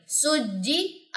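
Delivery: सुज्जी held on the doubled ज, soft and slow; correct pronunciation. Shown as a demonstration. Teacher shows students the right way, held soft on सुज्जी. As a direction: pause on the ज of सुज्जी without stressing it. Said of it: "stay तो होगा जीम की जज़म पे".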